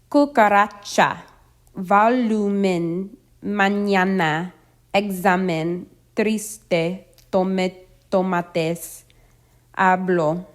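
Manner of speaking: next-to-last syllable stressed in Cucaracha, volumen, mañana, examen, triste, tomates, hablo; measured word list, cucaRAcha, voLUmen, maÑAna, eXAmen, TRIste, toMAtes, HAblo; penultimate-syllable stress. Shown as a demonstration. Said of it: "stress on the next to last syllable".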